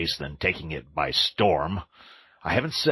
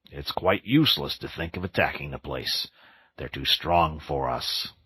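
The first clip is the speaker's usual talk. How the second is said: more kindly; 2 semitones lower than usual. Acted. Badger comforts sobbing Toad, gently kind. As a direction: soothe a crying friend. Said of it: "went on the Badger more kindly".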